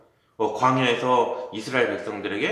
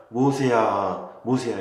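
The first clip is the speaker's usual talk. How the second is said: gentle call; 3 semitones lower, slower than usual. Shown as a demonstration. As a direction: call 모세야 gently, drawn out. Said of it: "이렇게 부드럽게 부르셨을까?".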